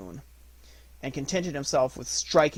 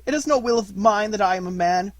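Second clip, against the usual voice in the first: loud; 8 semitones higher, 8 dB louder than usual. A narrator's reading. Mowgli protests his fate.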